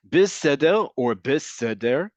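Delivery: בסדר said twice, each with a different resh; vary only the final r sound in בסדר; בסדר with one resh, then the other; two resh pronunciations. Shown as a demonstration. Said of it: "depending on how you say the letter resh".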